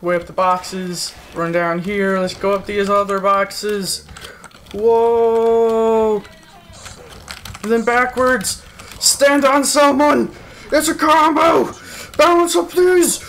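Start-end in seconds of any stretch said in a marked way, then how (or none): 4.7-13.2 excited yelling. Real, not acted. Stacking on boxes, falling off.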